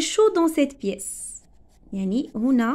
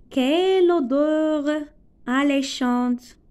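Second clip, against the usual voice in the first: exclamation; 2 semitones higher, slower than usual. Shown as a demonstration. Teacher modelling an exclamation about a smell, slow. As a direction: savour it, stretching "Quelle odeur alléchante". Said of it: "c'est une phrase exclamative".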